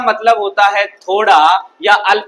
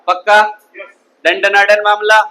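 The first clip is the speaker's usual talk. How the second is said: punchy catchphrase; 4 dB louder than usual. Real, not acted. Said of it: "teacher's catchphrase".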